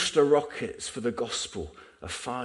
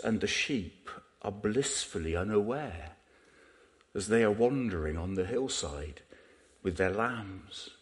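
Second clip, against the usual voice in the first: David Attenborough. Retold or imitated. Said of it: "in his mellifluous voice".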